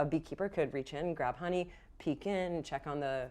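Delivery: steady descriptive narration; game master scene setting. Acted. Game master sets the scene at the hives, calm narration. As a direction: paint the hives for the players.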